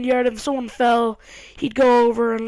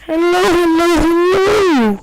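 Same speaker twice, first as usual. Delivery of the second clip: hammed-up loud hello to the viewers; louder, higher, singsong channel greeting; 5 semitones higher, 7 dB louder, much slower than usual. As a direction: call it out loud like opening a show. Vlog intro, calling out hello.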